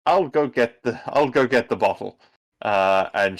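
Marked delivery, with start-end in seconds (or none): 0.1-2.2 casual offer. Acted. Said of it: "It's like".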